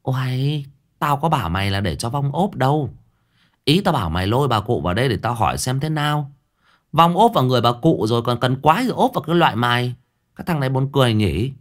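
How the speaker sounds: fast impatient scolding; snapping. Acted. Thơm snaps at the fat boy, fast and impatient. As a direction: rattle it off, fed up. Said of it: "Cô Thơm gắt".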